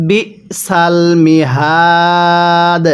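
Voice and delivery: slow, drawn-out tajweed chant; Quran recitation. Shown as a demonstration. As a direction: recite it slowly, stretching the vowels. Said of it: "কিভাবে পড়তে হবে?". (ধীরে টেনে কুরআন তিলাওয়াত)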